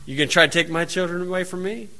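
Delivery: soft, quick and unbothered; calmly. Retold or imitated. Parent to official, calm and soft. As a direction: ask it coolly, no heat. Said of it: "calmly say".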